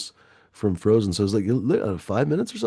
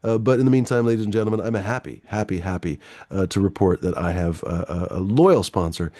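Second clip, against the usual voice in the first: mock sponsor announcement. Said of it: "I've decided to sell out".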